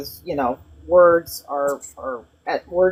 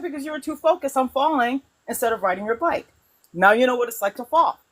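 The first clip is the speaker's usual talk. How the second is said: higher, lightly voiced firm dad; a hint of a father pushing his kid; father's lesson; 6 semitones higher than usual. Father telling his child to ride again, lightly voiced. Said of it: "My father said".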